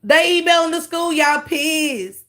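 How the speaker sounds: high, loud jeering reaction; excited mocking retort. Real, not acted. Streamer jeering at the speaker's complaint, high excited. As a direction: jump on it, mocking.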